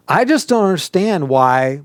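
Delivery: indignant "I don't get it"; exclaimed complaint. Shown as a demonstration. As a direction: state it with an exclamation point, not asking. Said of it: "exclamation point".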